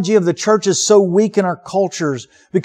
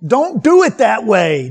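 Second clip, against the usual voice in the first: firm command; 4 semitones higher, 4 dB louder than usual. Retold or imitated. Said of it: "Jesus says".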